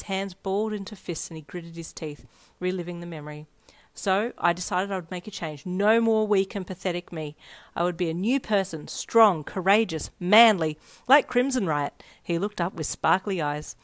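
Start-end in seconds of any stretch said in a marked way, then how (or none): 4.0-12.0 louder and louder, each word punched; passionate vow building. Acted. Ichiro telling her his resolve to be strong, building loud. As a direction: swear it like a hero in the making.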